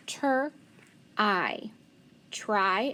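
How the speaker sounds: segmented ter, I, try; sounding out t-r-y. Shown as a demonstration. Teacher sounding out a word for the class, segmented. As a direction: break it into sounds then blend. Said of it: "I can blend that T R and say".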